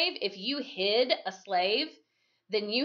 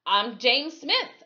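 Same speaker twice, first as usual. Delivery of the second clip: mocking voice; 5 semitones higher, 5 dB louder, slower than usual. Men mocking the sheriff.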